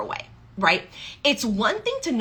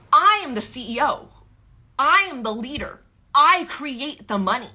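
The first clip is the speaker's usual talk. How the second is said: confident declaration; 4 semitones higher than usual. Acted. Coach declaring her power.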